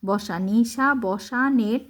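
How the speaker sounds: নিশা then বসানের, slow, with a clear break; broken apart. Shown as a demonstration. Teacher showing a pupil to break the word. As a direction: split নিশা বসানের into two parts. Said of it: "নিশা প্রথমে ভেঙে বলবা".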